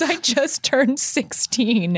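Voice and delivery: drawn-out British confession; British accent. Retold or imitated. Boyfriend admits his age in a slow British accent. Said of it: "the power of that accent".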